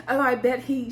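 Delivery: imitating a sarcastic woman; knowing, mock-agreeing retort; lightly sarcastic comeback. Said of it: "started talking in a sarcastic voice".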